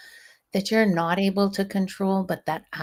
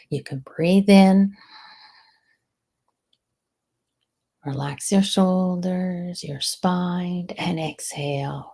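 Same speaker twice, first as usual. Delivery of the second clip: calm breathing guide. Shown as a demonstration. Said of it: "breath work is excellent".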